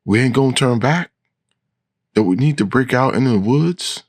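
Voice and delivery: shrill, high-pitched questioning; high character voice, rising protest. A narrator's reading. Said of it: "she says in a high, shrill voice".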